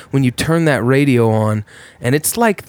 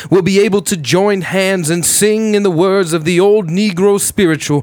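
MLK impression; 6 semitones higher than usual. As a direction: build like King at the podium. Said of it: "That's our boy M L K".

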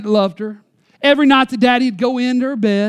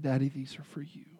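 put-on much softer, lower, quiet tearful child; tearful surrender; 8 semitones lower, 16 dB quieter than usual. Tearful daughter hands her pearls to dad, hushed. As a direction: give it up on a trembling hush. Chin and lip quivering.

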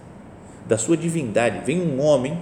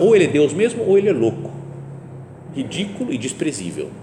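louder, higher, pressing each choice; forceful preaching; 3 semitones higher, 3 dB louder than usual. Real, not acted. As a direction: drive home the either-or with force. Preaching at full force on the dilemma.

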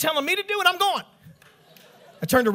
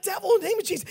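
high-pitched mock exorcism; hammed-up panicky prayer; inner rebuke, blurted; 9 semitones higher, much faster than usual. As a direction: rebuke the devil in a raised, urgent pitch. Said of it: "In my mind, in my mind".

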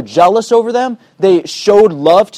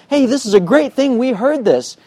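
excited quote, higher pitch; 5 semitones higher than usual. Retold or imitated. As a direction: imitate excited new believers, pitched up. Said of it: "They were excited".

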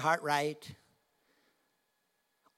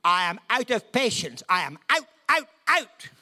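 louder, rising to a high cry of "out"; out of patience; 7 semitones higher, 6 dB louder than usual. Retold or imitated. Praying to the Father, venting his exasperation. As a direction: build from firm to a high cry on "out, out". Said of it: "I said".

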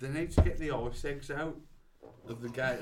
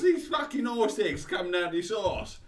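high, shouted mock-Australian rant; Australian accent; 10 semitones higher, 8 dB louder than usual. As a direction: rant loudly in broad Australian. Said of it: "What's Australian?".

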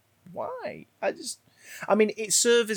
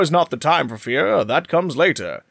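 louder, well-spoken RP British accent; 4 dB louder than usual. Shown as a demonstration. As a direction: say it in refined RP British. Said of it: "a very well-spoken, R P accented, uh, British voice".

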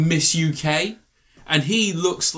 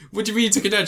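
mock incredulous; 8 semitones higher, much faster than usual. Wife quoted, incredulous.

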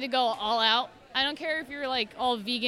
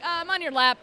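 cheerful cat voice; 5 semitones higher, 4 dB louder than usual. Retold or imitated. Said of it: "he's like".

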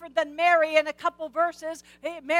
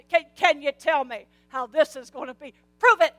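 demanding proof; 4 dB louder than usual. Acted.

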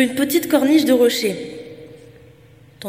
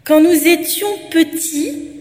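calmer voice; 6 semitones higher, 6 dB louder, slower than usual. Acted. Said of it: "d'une voix plus sereine".

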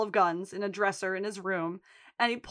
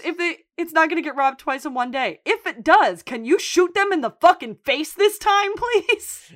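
Mickey; 6 semitones higher, 6 dB louder than usual. Retold or imitated. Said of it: "And Mickey says".

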